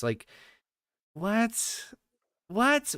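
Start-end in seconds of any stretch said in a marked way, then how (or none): 1.1-2.9 high, baffled what; incredulous. Real, not acted. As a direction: squeak it out in disbelief. Incredulous reaction.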